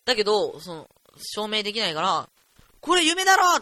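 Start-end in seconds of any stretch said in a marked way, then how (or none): 2.8-3.6 louder and higher, half-real yell; retold shout. Yelling at the dream classroom, loud and higher. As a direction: call out to the dream. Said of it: "俺叫んだんですよ".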